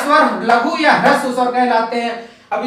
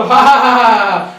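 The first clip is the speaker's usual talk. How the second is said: louder mock villain laugh, long; Ravana laugh; 2 semitones lower, 4 dB louder than usual. Shown as a demonstration. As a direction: laugh like a demon king. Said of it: "Ravan हंसी हंसता है". (रावण की ठहाकेदार हंसी)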